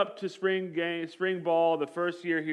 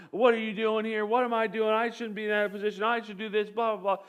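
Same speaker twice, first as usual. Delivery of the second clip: angry rant; 5 semitones higher than usual. Retold or imitated. Freshman quarterback ranting at his head coach, heated. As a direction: vent like an entitled freshman. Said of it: "he starts giving him a piece of his mind".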